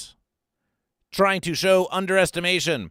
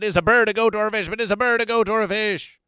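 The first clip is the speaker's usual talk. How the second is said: mock puzzled; 5 semitones higher, 4 dB louder, faster than usual. Real, not acted.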